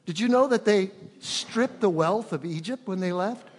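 ordinary talk, nothing marked

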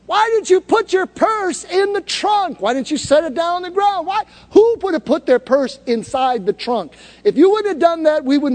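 hammed-up nagging husband; mock angry lecture. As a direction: pretend to berate wife over purse. Mock lecturing his wife.

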